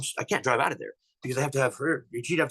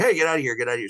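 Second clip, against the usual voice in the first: retold yell; 3 semitones higher, 3 dB louder, faster than usual. Scaring off the creature in the woods, retold yell. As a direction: shout it at the unseen beast. Retold yelling to scare animal.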